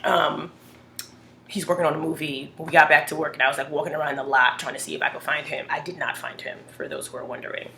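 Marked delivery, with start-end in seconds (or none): 3.3-7.7 hushed whisper. Real, not acted. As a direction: whisper it like a secret. Confessing quietly.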